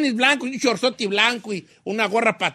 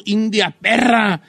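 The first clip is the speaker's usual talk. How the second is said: slow, stretched song shout-out; drawn-out band cry; slower than usual. Retold or imitated. Quoting a band's cry from a song, drawn out. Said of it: "Laberinto nomás en una rola dijo".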